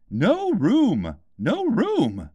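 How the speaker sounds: loud, high shout of no room; a loud, high double cry. A narrator's reading. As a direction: shoo her away loudly. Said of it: "they cried out".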